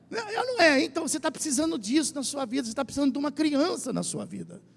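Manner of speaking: ordinary delivery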